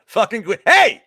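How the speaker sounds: loud, high mock-paisan shout; big drawn-out goombah call; hammed-up Italian greeting. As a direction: holler hey like a playful Italian-American caricature. Hamming up Italian-American greeting for Guido.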